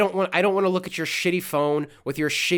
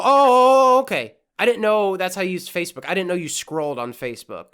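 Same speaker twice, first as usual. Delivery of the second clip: mock surprise; 4 dB louder, faster than usual. Mocking Lisa's scrolling tip, fake revelation.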